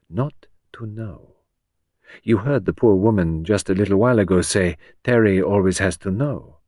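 lightly voiced Belgian detective, measured; a hint of a French accent, unhurried; Poirot's French accent. Poirot explains to Henrietta.

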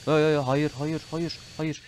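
pleading with the crash; panicked no. Real, not acted. Gamer watching his jet go down, panicked shouting.

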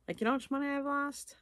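high, fast exasperated question. Real, not acted. Asking viewers about lost money, high exasperation. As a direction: pitch it up in disbelief.

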